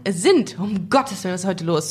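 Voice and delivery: talking with a blocked nose; sick, stuffed-up voice; stuffy nose. Real, not acted. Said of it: "Sorry, ich bin krank".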